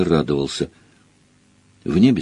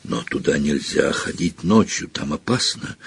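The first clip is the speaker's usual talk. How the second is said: quiet, uneasy protest; scared bully losing nerve; nervous; 3 semitones lower, 6 dB quieter than usual. A narrator's reading. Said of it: "голос у него был совсем не такой самоуверенный".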